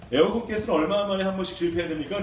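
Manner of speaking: mildly impatient repeated question. Retold or imitated. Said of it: "한번 더 물어봤어요".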